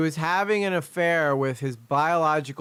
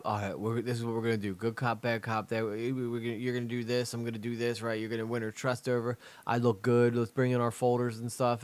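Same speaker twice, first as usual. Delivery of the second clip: detective voice; 2 semitones lower, 5 dB quieter than usual. Retold or imitated. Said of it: "they do the whole good cop".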